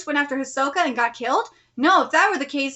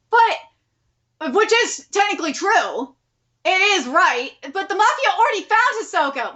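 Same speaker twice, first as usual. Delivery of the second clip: heated argument; 4 semitones higher, 3 dB louder than usual. Real, not acted. Reader argues with the story.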